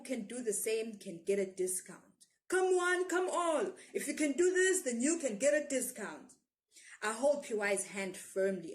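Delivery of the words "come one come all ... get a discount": loud, high hawker's cry with a laugh; market seller shouting. A narrator's reading. Orange seller calling the crowd for a discount, loud and high. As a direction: hawk it to the whole market. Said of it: "He shouts".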